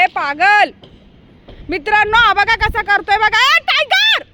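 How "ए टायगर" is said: high, drawn-out call. Real, not acted. Owner calling misbehaving dog, high holler. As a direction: holler the dog's name up high.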